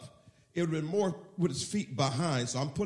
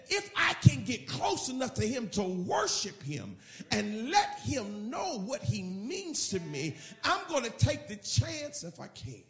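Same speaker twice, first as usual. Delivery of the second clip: fervent resolve; 4 semitones higher than usual. Acted. Preacher voices the woman's inner resolve.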